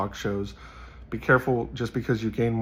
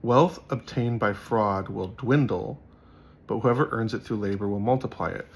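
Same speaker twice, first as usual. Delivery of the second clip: scripture reading. Acted. Reads a proverb aloud.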